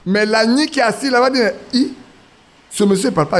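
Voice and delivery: ordinary talk, nothing marked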